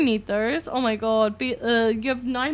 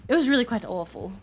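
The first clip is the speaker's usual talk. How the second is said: higher-pitched Medi voice; 3 semitones higher than usual. Acted. Medi continues in game.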